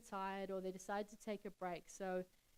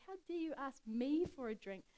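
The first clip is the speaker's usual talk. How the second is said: shocked; 4 semitones higher, 4 dB louder than usual. Acted. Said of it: "So she's shocked".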